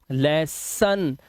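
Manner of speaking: "लेसन" very slowly as les-SUN; slow, split लेसन with unrounded last vowel; "अन" ending shown. Shown as a demonstration. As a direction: stretch लेसन, ending in a neutral "अन". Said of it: "आवाज आ रही है अन".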